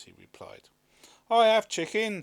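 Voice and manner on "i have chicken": loud, higher eager farmer; farmer's voice. A narrator's reading. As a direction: offer it keenly. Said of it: "said a farmer".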